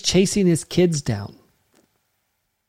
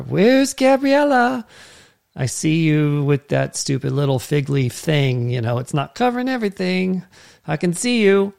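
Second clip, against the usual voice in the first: teasing parent. Retold or imitated. Father teasing his hiding child Gabriella, lightly voiced. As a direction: tease the child hiding behind the fig leaf.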